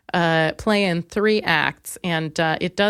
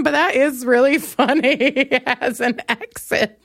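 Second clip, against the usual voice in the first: laughing; 3 semitones higher than usual. Real, not acted. Laughing at his exit line.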